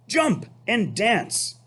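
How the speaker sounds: high, slow rooster call; high slow barnyard rooster. Acted. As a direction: crow the order slowly. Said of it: "said the rooster".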